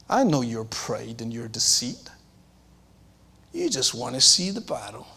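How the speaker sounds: hushed, accusing whisper; sneering whisper. Acted. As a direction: hiss the accusation low. Eliab's accusation voiced.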